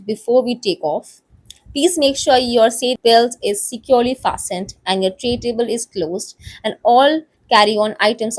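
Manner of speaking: slow, measured cabin announcement; flight attendant announcement. Acted. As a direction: formally welcome passengers aboard, unhurried. (विमान परिचारिका की धीमी, औपचारिक घोषणा)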